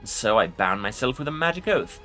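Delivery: low growling lich; growling undead king. Acted. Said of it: "A low growl escapes the Lich".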